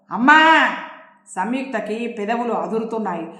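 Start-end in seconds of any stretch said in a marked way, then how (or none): 0.1-0.7 loud shout of protest. Acted. Daughter shouting at her mother to stop, loud.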